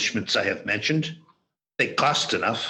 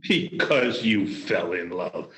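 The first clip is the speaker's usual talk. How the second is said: scornful echo; 4 semitones lower, slower than usual. Acted. Scornfully echoes nephew's love answer.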